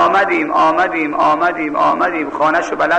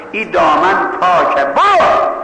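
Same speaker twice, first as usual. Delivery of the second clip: retold girl's shout; slower than usual. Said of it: "گفت برو گم شو".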